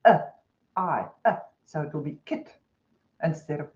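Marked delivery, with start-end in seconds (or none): 0.1-1.4 slow, deliberate classroom question; slow teacher prompt. Shown as a demonstration. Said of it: "So you can say". 1.7-2.5 kit in a New Zealand accent. Real, not acted. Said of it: "in your New Zealand accent".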